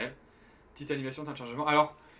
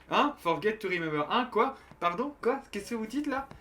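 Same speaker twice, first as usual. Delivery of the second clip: mock confusion; 6 semitones higher than usual.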